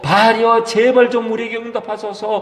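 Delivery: a preacher voicing frantic priests; pleading prophets' cry. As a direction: beg the god to answer, voice lifted. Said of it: "막 그렇게 소리를 냅니다".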